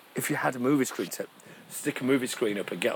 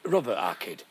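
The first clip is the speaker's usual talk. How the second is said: mock Sheffield lad; 5 semitones higher than usual. Sean Bean snapping at De Niro, exasperated. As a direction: correct the star in frustration. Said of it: "He's standing there thinking".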